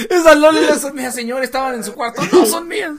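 mock pleading suspect. Acting accused pleading to police.

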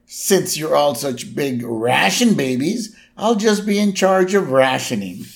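mildly hammed-up huff, rising in pitch; Homer angry. Retelling a castaway seizing the rations, mock anger. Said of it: "And Homer gets all angry".

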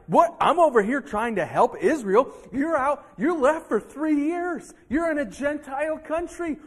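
loud, high, exasperated complaint; indignant outburst. Acted. Preacher voicing Obadiah blasting Elijah, indignant shouting. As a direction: vent your frustration at him, full volume. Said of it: "could have gotten mad at Elijah".

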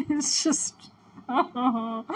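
helpless, teary laugh; broken phrases through real laughter; laughing off tears. Real, not acted. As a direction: laugh to keep from crying. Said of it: "so close to tears that I'm trying to".

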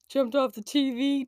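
imitating a sheepish kid; sheepish child. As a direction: answer like a kid caught out. Child's answer after being quiet.

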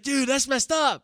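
high, slow, laughing through it; laughing inmate voice. Retold or imitated. The inmate reacting to the cave story, slow and laughing. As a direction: crack up while quoting him. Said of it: "He's like".

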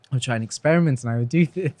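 hiccuping while talking; tipsy hiccups breaking the words; hiccup giggles. Real, not acted. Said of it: "I'm hiccuping 'cause I'm drunk".

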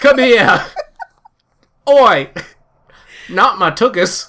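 high, loud hammed-up yelling with a laugh; mock drunk teen. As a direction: yell like a rowdy drunk, laughing. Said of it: "do an impression of it".

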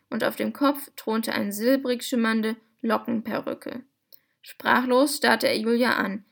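lively, clearly articulated storybook reading; story narration. A narrator's reading. Host reading a novel excerpt to podcast listeners, expressive story narration. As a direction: read it out like a children's audiobook.

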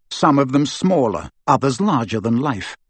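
plain reading voice

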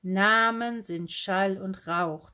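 slow, measured reading; reciting a quotation. A narrator's reading. Bookseller reads a proverb to the girl, reciting slowly. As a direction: deliver it slowly as a weighty saying. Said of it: "zitierte die Buchhändlerin".

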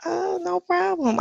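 breathy late night radio voice; sexy voice. Acted. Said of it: "she put the little sexy voice on".

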